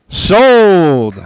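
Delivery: steady auctioneer patter; auctioneer calling bids. Real, not acted. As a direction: keep the bids rolling. Second auction bid calling.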